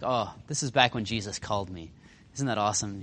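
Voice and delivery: lightly acted happy memory; fond reminiscing. Peter thinking back to his calling, mildly fond reminiscing. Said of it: "he's reminiscing. He's like".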